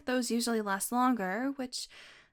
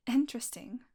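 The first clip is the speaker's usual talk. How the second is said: whispered. Acted. Vampire lab partner musing on magic and biology, whispered. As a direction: drop the word to a sudden whisper. Savoring a fascinating idea.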